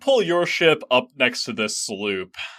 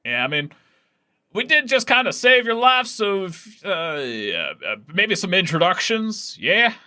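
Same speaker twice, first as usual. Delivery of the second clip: penguin voice; 9 semitones higher than usual. Acted. Other penguin speaks.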